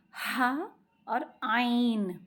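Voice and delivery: हा and आइन drawn out slowly from the middle of the throat; slow throaty Arabic letter demo. Shown as a demonstration. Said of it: "इसकी आवाज़ कैसी होगी?".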